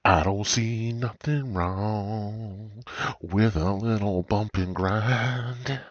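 put-on slow, creepy old man voice; drawn-out old politician impression; Joe Biden voice. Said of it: "like old Joe".

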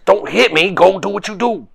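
high loud comeback; loud retort. Real, not acted. Player snaps back at teammate.

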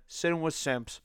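"Sit-in" casual, with no g; unbothered "Sit-in" with the ending clipped to n; own accent. Real, not acted. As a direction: say "Sit-in" quickly, t softened. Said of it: "That's my accent".

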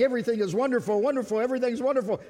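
fast, gushing mock cheer; relentlessly happy. Preacher teasing always-smiling people, mock happy. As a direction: rattle it off like a tireless optimist. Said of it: "you're always smiling".

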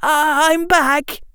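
high, wobbling with tears; wavering voice. Acted. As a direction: voice breaking as he greets her. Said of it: "with his voice wavering".

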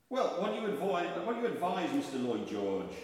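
loud, high kingly appeal, slowing on the name; George the Fifth. Acted. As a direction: press your minister for advice. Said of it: "conversation between George the Fifth".

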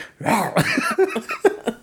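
high mock chomp noise; imitated dog snap. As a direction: imitate the dog's jaws going past. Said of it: "it was louder. It was like".

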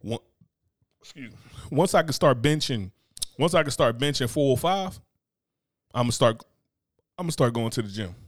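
mock someone making lazy excuses. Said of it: "How crazy did that shit sound?".

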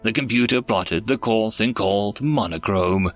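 measured rhyming storyteller delivery; verse story narration. Acted. Narrator telling listeners of aliens and a stolen child, storytelling. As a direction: narrate it as a rhyming tale, lingering on each refrain.

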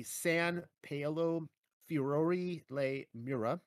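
slow, careful attempt at an Italian accent; clumsy Italian accent. Shown as a demonstration. Narrator naming the Roman basilica, in a slow amateur Italian accent. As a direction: sound out the Italian name slowly in a shaky Italian accent. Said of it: "sorry for my terrible Italian accent".

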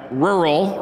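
Rural, said slowly with a curled R; demo pronunciation. Shown as a demonstration. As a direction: pinch out Rural, lips rounded. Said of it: "We gotta pinch it out".

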